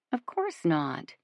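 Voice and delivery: slow, soft, far-off voice; in the distance. Acted. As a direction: speak from across the room. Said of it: "Melissa says in the distance".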